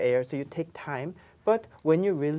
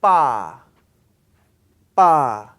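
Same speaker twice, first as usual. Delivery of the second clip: ba said hard and much louder; loud tensed ba; 3 semitones lower, 12 dB louder than usual. Shown as a demonstration. Teacher loudly demonstrating tensed ba. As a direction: punch the tensed ba. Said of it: "tense sound".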